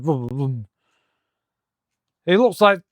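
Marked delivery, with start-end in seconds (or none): 0.0-0.7 drawn-out vroom, fading softer; imitated whooshing vroom. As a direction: mimic a rumbling noise, trailing off quietly. Imitating the noise of weird fog.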